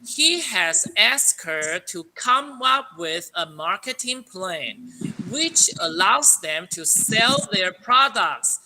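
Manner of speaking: slow, clear read-aloud for students; slow model reading. Shown as a demonstration. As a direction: read it out word by word for the class. Teacher reads model sentence. (老师给学生示范，慢慢清楚地朗读)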